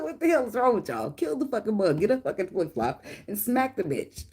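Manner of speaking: a touch of high exasperated parent voice; fed-up mom telling kids off; mock scolding kids. Mother scolding kids scared of a bug, mildly exasperated. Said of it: "I said".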